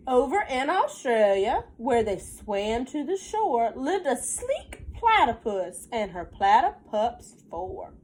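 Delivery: put-on sing-song read-aloud for a child; lilting picture book reading; story narration. A narrator's reading. Mother reading a counting book to her child, sing-song.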